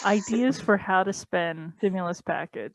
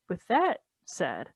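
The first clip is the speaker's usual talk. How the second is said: whispered aside; slower than usual. Real, not acted. Drops voice in aside.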